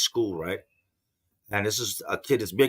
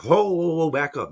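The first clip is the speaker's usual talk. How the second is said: startled whoa; 6 semitones higher than usual. Retold or imitated. Dad caught off guard as son says he'll quit school, startled. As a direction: pull the son up short, surprised.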